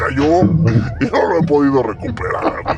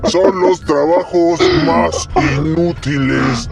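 put-on very old man; 3 semitones higher, slower than usual. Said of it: "Hablar como viejito".

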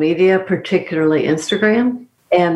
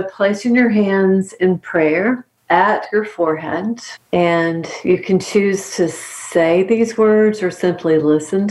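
guided mantra. Acted. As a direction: lead the listener through a calm blessing. Leads a closing mantra.

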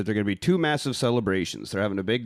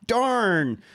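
prim overdub; 10 semitones higher than usual. Retold or imitated. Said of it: "they were like".

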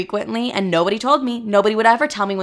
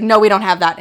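louder, flat-out no; blunt loud refusal; 6 dB louder, faster than usual. Retold or imitated. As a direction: shut it down loudly.

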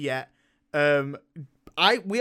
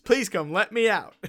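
higher, hammed-up pleading; mock screaming for help; 5 semitones higher, 4 dB louder than usual. Host trapped in the spoiler section, mock desperate plea. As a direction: beg for rescue in pretend panic. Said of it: "I'm screaming for help".

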